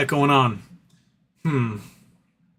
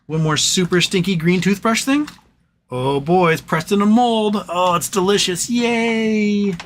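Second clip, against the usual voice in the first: excited pet talk; 4 semitones higher than usual. Real, not acted. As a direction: cheer the dog on over a treat. Hyping the dog's treat.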